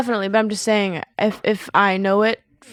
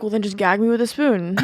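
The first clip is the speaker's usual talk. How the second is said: laughing through the words. Retold or imitated. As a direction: say it while cracking up. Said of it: "And you're like".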